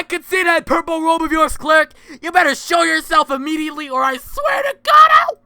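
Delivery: angry threat. Acted. Threatening a hidden enemy.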